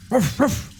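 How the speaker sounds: high barking dog noises; wolf impression. Shown as a demonstration. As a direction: bark it out like a wolf. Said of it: "It's my wolf impression".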